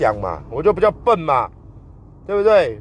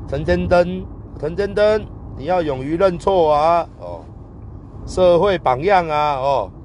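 imitating the judge. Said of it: "他法官也是一直这样子说".

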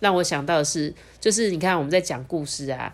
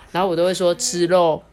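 Taiwanese accent; 3 dB louder than usual. Shown as a demonstration.

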